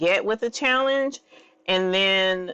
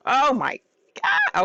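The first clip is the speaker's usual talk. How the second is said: high-pitched real exclamation; delighted squeal; excited; 5 semitones higher than usual. Real, not acted. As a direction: gasp it out, leaping high. Overcome while revealing transfer.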